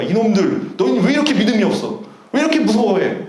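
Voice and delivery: quick, mildly scolding retort; mock scolding. Preacher voices Jesus rebuking the frightened disciples, mildly scolding. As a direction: lightly imitate a brisk telling-off. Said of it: "지금 책망하는 거죠".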